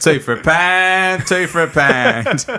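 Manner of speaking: loud, high, drawn-out Cockney market cry; Cockney accent. Pretend. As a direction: hawk it like a Cockney trader. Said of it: "a Cockney accent".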